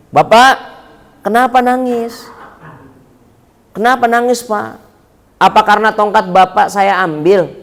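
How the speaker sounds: gently acted worried questioning; lightly voiced Sunan Kalijaga. Young robber asks the fallen old man, lightly voiced concern. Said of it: "Kata Sunan Kalijaganya begini".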